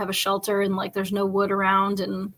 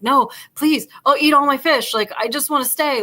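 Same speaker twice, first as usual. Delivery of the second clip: mock crying plea; 5 semitones higher, 4 dB louder than usual. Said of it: "like, crying".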